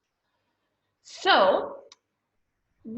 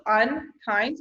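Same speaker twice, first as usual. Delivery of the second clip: UNKIND slowly divided, UN, then KIND; two syllables. Shown as a demonstration. Teacher explaining the syllable symbol, UNKIND in two slow beats. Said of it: "it's a two syllable word".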